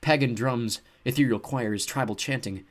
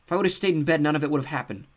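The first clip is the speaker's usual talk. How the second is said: lamenting; 6 semitones higher, 6 dB louder than usual. A narrator's reading. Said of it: "Seth lamented".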